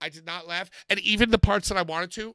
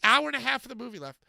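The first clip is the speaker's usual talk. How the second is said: ordinary talk, nothing marked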